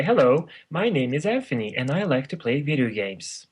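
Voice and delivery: proper, infomercial-style delivery; formal announcer voice. Shown as a demonstration. Showing the infomercial way of introducing himself, formal announcer voice. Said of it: "Or you could say".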